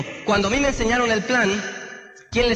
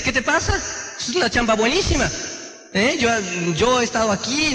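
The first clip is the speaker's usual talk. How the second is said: a la defensiva. Retold or imitated. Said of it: "se pone a la defensiva y dice".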